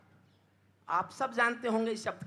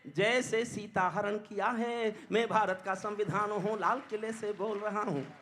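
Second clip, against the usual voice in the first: poem recitation; 4 dB louder than usual. Acted. Constitution accusing its rulers from the Red Fort, impassioned poem recitation. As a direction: recite rhythmically, swelling into ringing cries.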